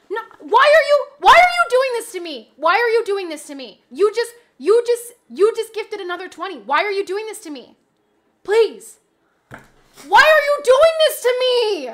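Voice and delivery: high, loud desperate wail; high loud pleading; anguished pleading shout. Real, not acted. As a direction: beg the gifter to stop, overwhelmed. Pleading with the mystery gifter.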